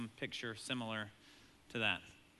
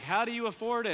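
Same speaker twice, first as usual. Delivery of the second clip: incredulous people; 9 semitones higher, 6 dB louder than usual. Retold or imitated. People asking dad.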